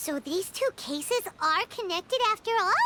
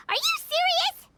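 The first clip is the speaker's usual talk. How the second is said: disbelief; 11 semitones higher, 4 dB louder than usual. Acted. Shocked at the detective's theory.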